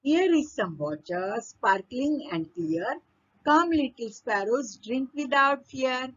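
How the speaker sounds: very slow, measured verse reading; poem recitation. Acted. Teacher reading a stanza to pupils, slow poem recitation. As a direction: draw out each phrase of the verse.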